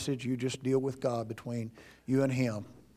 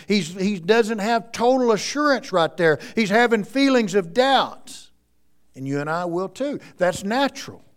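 loud, high, fervent sermon delivery; full-force preaching; 7 semitones higher, 8 dB louder than usual. Acted. Preacher exhorting the congregation about doubt, loud and high. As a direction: drive it home from the pulpit.

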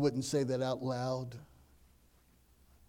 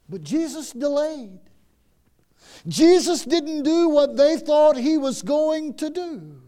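loud, high, emphatic preaching; preaching at full force; 8 semitones higher, 9 dB louder, slower than usual. Acted. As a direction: drive the point home with rising fervour.

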